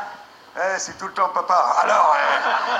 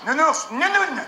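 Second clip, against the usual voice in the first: put-on toddler babble; 6 semitones higher, slower than usual. Parent then toddler naming.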